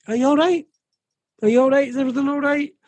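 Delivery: put-on high, child-directed checking-in voice; lifted, insistent concern; retold concerned asking. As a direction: act out a dad checking on his upset child. Father retells comforting his upset son.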